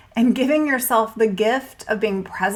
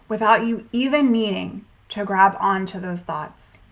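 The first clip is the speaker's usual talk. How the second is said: measured meditation guide, with pauses between phrases; guided meditation. Acted. Coach guiding a listener through pre-meal anxiety, guided meditation. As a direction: lead them gently through it, leaving room to breathe.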